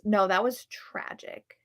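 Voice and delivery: normal talking voice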